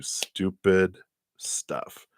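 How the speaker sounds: slow hushed whisper; secret-sharing whisper. Real, not acted. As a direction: let it drop to a whisper. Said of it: "whispered punchline".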